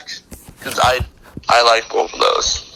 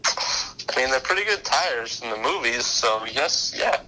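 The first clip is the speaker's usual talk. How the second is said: quiet; 10 dB quieter than usual. Real, not acted. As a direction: softly, close to a whisper. Suddenly very quiet.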